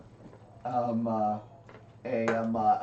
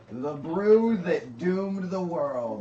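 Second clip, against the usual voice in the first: ominous dwarf; 4 semitones higher, much slower than usual. Acted.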